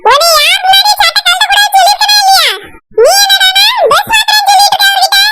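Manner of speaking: angry scolding. Acted. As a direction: scold him for undressing in front of the visitor.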